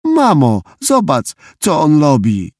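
put-on high-pitched little-boy complaint; tattling child. A narrator's reading. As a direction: call mum to witness, in a high kid voice. Child tattles to mum again. (wysoki głos skarżącego chłopca)

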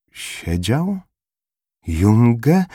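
high, hushed then sharper double take; startled disbelief. A narrator's reading. Formela spotting Junge, startled disbelief. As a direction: realise with a jolt he is dead. Narrator startled by dead man.

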